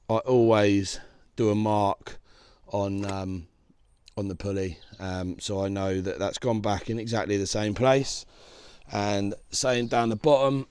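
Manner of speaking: hoarse voice. Real, not acted. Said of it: "Do excuse my voice, I've had this bloody awful virus".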